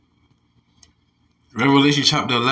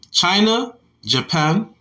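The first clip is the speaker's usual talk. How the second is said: "China" jumps higher with a rising lilt, "Japan" rises too; sing-song upward lilt on "China, Japan"; odd sing-song; 4 semitones higher, slower than usual. Real, not acted. Reading the news article aloud, quirky rising lilt. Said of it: "I don't know why I said it like that".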